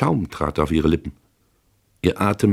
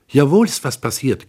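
giggling; 8 semitones higher, 4 dB louder than usual. A narrator's reading. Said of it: "kicherte sie".

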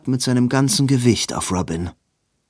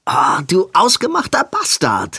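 breathless whispered curse; 8 semitones higher, 4 dB louder than usual. Acted. Robin curses Edwin breathlessly.

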